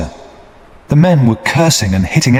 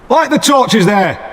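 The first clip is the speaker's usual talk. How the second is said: a slow, much higher shouted command; shouted order; 12 semitones higher, slower than usual. A narrator's reading. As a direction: call the order out to the soldiers. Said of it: "he shouted to the soldiers".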